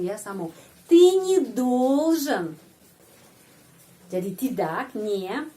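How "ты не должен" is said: не run into должен, slow and careful; ты недолжен, joined, at half speed; slow linked demo. Shown as a demonstration. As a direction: say Ты не должен as one flowing unit. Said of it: "Ucapannya не selalu sambung".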